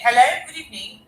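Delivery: to someone hard of hearing. Real, not acted. Host calling to faint caller.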